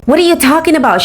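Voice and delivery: high-pitched indignant imitation; mock teenage denial. Teenager denying tailgating, high mocking imitation. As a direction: mimic an indignant teen up high.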